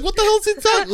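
high squeaky bewilderment; confused high squeak. Retold or imitated. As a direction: squeak it out, baffled. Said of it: "I'm like".

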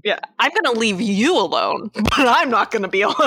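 fast, laughing through it; laughing mock quote. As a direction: joke it out while laughing. Voicing Gibson, laughing.

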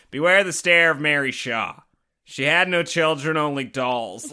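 the poem read in a plain American accent. Shown as a demonstration. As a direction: say it straight, the American way. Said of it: "doesn't make any sense with an American accent".

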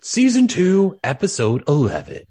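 crank it up like an excited grandpa; old man voice. Acted. Old man voice, announcing the episode title. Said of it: "old man accent".

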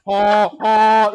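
mock truck horn honk; honking imitation. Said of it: "Sounds like a truck horn".

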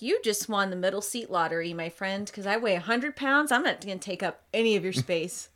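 lightly sarcastic mock congratulations. Woman to seatmate on a plane, lightly sarcastic. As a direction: tease a seatmate with a touch of sarcasm. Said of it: "me being really sarcastic".

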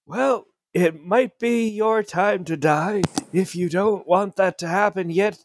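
lightly voiced magical echo; magically amplified voice. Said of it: "cast Thaumaturgy to make his voice echo out".

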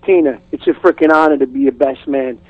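put-on easy New York accent, reading lines; lightly put-on New York Italian accent. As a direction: play a New York best man's accent. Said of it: "easy accent".

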